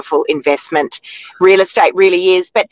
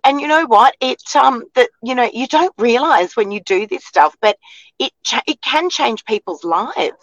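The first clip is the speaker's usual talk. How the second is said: higher-pitched, moved and halting; emotional; 5 semitones higher than usual. Real, not acted. Co-host moved by a viewer's thanks, emotional. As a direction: press on through rising emotion. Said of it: "Look at me getting all emotional".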